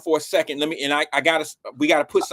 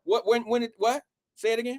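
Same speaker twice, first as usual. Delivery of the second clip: surprised; 5 semitones higher, 5 dB quieter than usual. Real, not acted. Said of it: "reacting to the release news".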